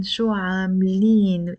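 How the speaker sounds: عاملين ending in a held "een"; long een ending. Shown as a demonstration. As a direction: stretch the last syllable of عاملين, "aam-leeen". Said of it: "in the in, in the end".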